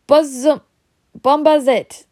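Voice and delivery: high, loud desperate plea. A narrator's reading. Harry begging Ron to help, desperate high plea. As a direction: blurt it out in panic. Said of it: "Harry said desperately to Ron".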